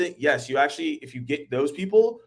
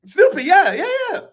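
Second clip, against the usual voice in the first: high, loud burst of recognition; excited recognition; 8 dB louder than usual. Real, not acted. Host suddenly remembers Snoopy, excited. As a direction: yelp it as it clicks. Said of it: "recognizing Snoopy".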